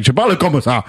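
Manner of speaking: African-accented French with added emphasis. Shown as a demonstration. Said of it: "you put an emphasis on shit".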